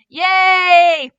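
high, loud yay; excited cheer. A narrator's reading. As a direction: cheer like happy kids. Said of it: "cheered in excitement".

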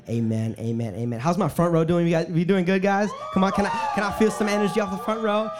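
rally every section of the room; hyping the crowd. Real, not acted. Hyping up rows of audience.

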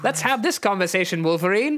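put-on earnest lilting appeal in accent; Nightcrawler. Nightcrawler appeals to Wolverine, accented and high. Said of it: "you tell Wolverine".

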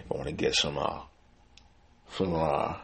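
talking around a swollen gum; words blurred by swollen gums. Real, not acted. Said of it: "sorry, my mouth's swollen".

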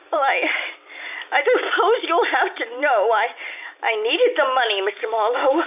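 a catch of tears in the voice; tearful confession. Acted. Confessing her debt to the detective, near tears. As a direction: give in to the truth, near tears.

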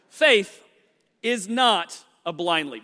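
coughing, then talking past a mint; mint in mouth. Real, not acted. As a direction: clear the throat, mint still in mouth. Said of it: "I threw a mint r".

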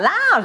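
"lounge" as an easy open "lao", N missing. Retold or imitated. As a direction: mimic a learner relaxing into "lounge" without its ending. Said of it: "สบายออกมาเลย".

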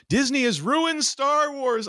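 high, drawn-out mock whine; exaggerated slow, high-pitched complaint; mock complaining. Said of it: "who complain about".

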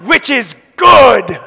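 put-on slow, drawn-out plea of a hungry child; slow craving child voice. A child's whole body longing for milk, slow pleading. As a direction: stretch it out like a craving baby. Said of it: "everything inside her says".

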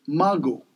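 "mago" said the Creole way, mah-go; Creole pronunciation. Shown as a demonstration. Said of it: "mango in Creole is mago".

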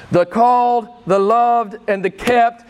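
really fired up, hammering each phrase. Real, not acted. Preacher rousing his church, fired-up and loud. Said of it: "And I know I'm fired up".

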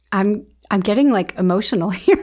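real emotion rising, half laughing; holding back tears as she thanks her guest; getting emotional. Real, not acted. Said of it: "I feel like I wanna cry".

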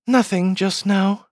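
high, slow, forlorn reply; rather sad. A narrator's reading. Alice answering the fawn without a name, rather sadly. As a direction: answer slowly in a small sad voice. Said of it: "She answered rather sadly".

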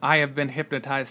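flat, droning hypnotized voice; monotone. Retold or imitated. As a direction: speak like a hypnotized drone. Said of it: "he says in a monotone".

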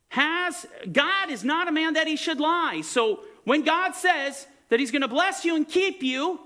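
emphatic preaching. Real, not acted. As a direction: press the congregation to decide. Preaches with raised intensity.

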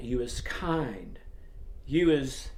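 gentle, quiet reassurance; tenderly reassuring the child; soft and sweet. Retold or imitated. Maid repeating comfort to the girl, softly. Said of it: "very, very sweetly".

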